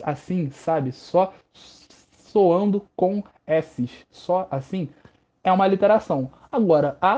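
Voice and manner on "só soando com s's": "Só soando com S's" drawn out very slow, each S hissed long; slow, hissing alliteration demo. Shown as a demonstration. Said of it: "se eu falasse vários S's seguidos".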